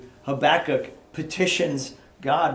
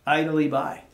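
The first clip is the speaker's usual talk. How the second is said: slow pleading quote; 3 semitones higher, 4 dB louder, slower than usual. Retold or imitated. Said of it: "look at him".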